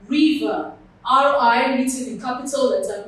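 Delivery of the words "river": RIVER with a loud RI, lighter ver; River set apart, front-stressed; stress on first syllable. Shown as a demonstration. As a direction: hit the Ri of River. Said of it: "that part of the word is stressed".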